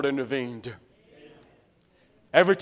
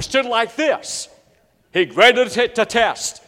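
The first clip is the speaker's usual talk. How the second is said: higher and louder, breathless with panic; rising alarm as the sermon story peaks; frantic retelling; 7 semitones higher, 5 dB louder than usual. Retold or imitated. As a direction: rush it like your mind is shot.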